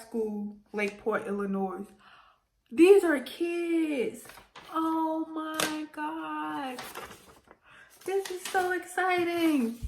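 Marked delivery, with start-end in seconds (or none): 2.7-9.8 slow, high, awed; touched surprise. Real, not acted. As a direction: take it in slowly, moved. Moved reading kids' artwork.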